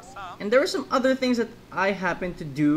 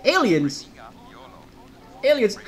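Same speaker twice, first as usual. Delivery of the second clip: loud put-on shout, rising much higher; 6 semitones higher, 5 dB louder than usual. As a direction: yell Aliens like a cartoon alarm. Shouting game line in voice.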